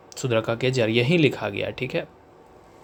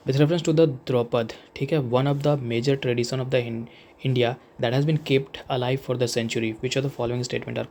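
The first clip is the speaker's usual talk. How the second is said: slow, deliberate reading of an exam question; reading the question aloud; much slower than usual. Acted. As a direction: read each word out slowly for the class. Reads question slowly. (प्रश्न को धीरे-धीरे पढ़कर सुनाना)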